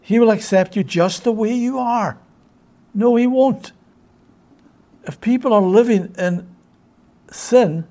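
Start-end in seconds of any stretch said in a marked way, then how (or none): 2.9-3.7 firm, loud and higher no; emphatic denial. Real, not acted. Preacher correcting a belief about God's acceptance, forceful and loud. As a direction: shut the idea down hard. Preacher rejects a false teaching.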